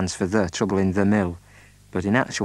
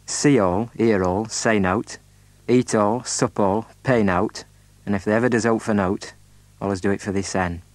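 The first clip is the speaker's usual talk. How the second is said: Yorkshire motto. Shown as a demonstration. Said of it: "the motto is".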